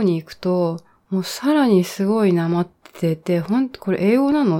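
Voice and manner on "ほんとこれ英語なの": incredulous question. Retold or imitated. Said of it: "っていうぐらい".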